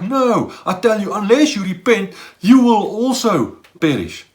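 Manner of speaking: emphatic. Retold or imitated. Jesus repeating the warning to the crowd, insistent. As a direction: press each word of the warning. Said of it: "Jesus is very emphatic here".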